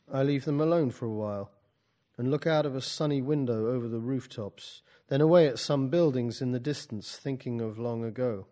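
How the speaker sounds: measured storytelling with separated questions; literary reading. Acted. Poet reads from the book to a class, literary reading. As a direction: read your own prose to an audience.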